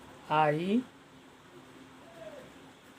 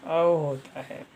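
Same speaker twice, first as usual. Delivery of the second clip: spelled out very slowly; slow dictation; much slower than usual. Shown as a demonstration. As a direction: dictate each sound slowly for the class. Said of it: "हमारा second rule है". (धीरे-धीरे बोलकर समझाना)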